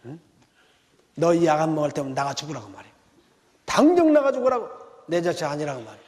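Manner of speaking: 당장에서 확 터지는 화난 엄마; 버릇없는 아들에게 호통치듯; angry mother. Retold or imitated. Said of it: "화를 내면서". (약을 안 먹는 아들에게 화내는 엄마, 당장에서 크게 터지는 호통)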